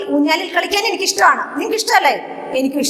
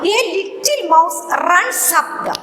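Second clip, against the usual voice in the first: slow dictation; slower than usual. Shown as a demonstration. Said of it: "reading sentence slowly to class".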